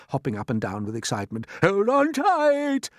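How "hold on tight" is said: high, slow called warning; loud warning. Acted. Grasshopper warns the others, loud and slow. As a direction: call out for all to hold.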